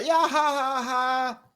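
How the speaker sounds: high, hammed-up mocking laugh; mock laughter. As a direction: imitate a jeering crowd's fake laugh. Mimics the people laughing at him.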